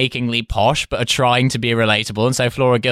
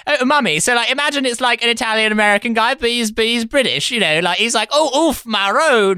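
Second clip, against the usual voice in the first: much higher, fast, plummy and gushing; mock posh Flora Gill; 10 semitones higher than usual. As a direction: gush to mummy like a sheltered posh girl. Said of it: "Flora Gill just to be like".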